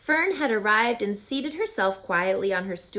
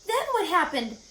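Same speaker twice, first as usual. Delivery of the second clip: pig's voice; 9 semitones higher than usual. Acted. Wilbur eager question.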